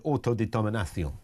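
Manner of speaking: attempted Spanish accent, word carefully rolled out. Shown as a demonstration. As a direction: put on a Spanish pronunciation.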